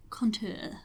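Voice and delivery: put-on French-accented Contour said with a falling end; a light, half-joking French accent on Contour; terrible French accent. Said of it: "I said that almost in a terrible French accent".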